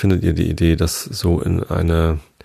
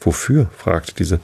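measured read-aloud with lightly voiced dialogue; story narration. A narrator's reading. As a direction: read a bedtime story with lively pitch on the characters.

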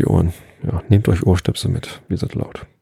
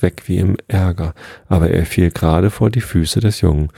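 measured, even storybook reading; story narration; slower than usual. A narrator's reading. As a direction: read a children's tale aloud, unhurried.

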